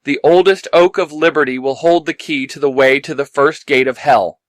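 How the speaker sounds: put-on creaky old man voice. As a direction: speak like a wise old man. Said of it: "puts on his best old man voice".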